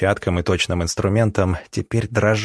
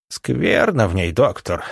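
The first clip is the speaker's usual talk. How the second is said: put-on old woman mumbling. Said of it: "прошамкала она".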